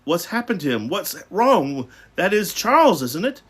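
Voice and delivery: high, urgent questions; alarmed questioning. A narrator's reading. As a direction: demand answers with rising worry. Father alarmed on seeing his son.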